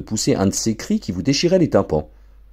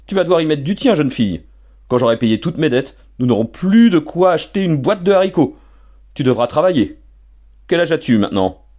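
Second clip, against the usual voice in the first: gloating stern father; 7 semitones higher, 3 dB louder than usual. Acted. Father lays down the law.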